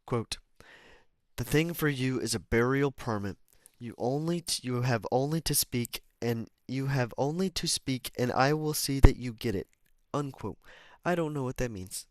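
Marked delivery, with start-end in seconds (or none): 0.0-10.6 measured, clearly projected book reading; deliberate read-aloud delivery; audiobook narration. Acted.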